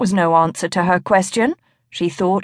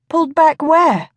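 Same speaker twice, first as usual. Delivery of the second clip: sharp, much higher startled question; alarmed question; 8 semitones higher than usual. A narrator's reading. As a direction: ask it in sudden alarm. Lorelei alarmed as he fades.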